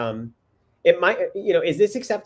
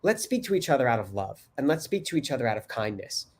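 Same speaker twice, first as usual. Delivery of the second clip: gentle loving; 4 semitones lower, 4 dB quieter than usual. Shown as a demonstration. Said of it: "tell me if I said that right".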